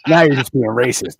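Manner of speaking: laughing through the words; chuckling accusation. Real, not acted. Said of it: "laughing right before".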